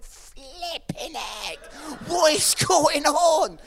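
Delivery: slow, stunned outburst building to loud; astonished dog. Acted. Voices the dog surprised by cat.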